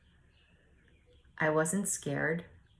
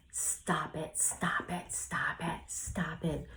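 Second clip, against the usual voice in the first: whispered, repeated scolding, imitated; retold exasperation; 5 dB quieter, slower than usual. Retelling a frustrated man scolding his child, in an exasperated whisper. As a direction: mimic a fed-up parent under the breath.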